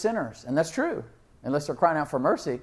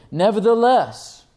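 NEVERTHELESS drawn out high and loud; emphatic idea stopper; 6 semitones higher, 7 dB louder, slower than usual. Acted. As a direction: halt everything with a slow, loud NEVERTHELESS. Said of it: "He's saying, "Hold on".

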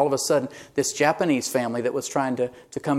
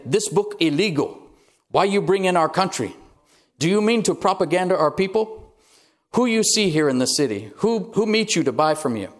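lightly voiced guard, higher, broken English; a hint of a stern guard; 4 semitones higher than usual. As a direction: interrogate her like a suspicious guard.

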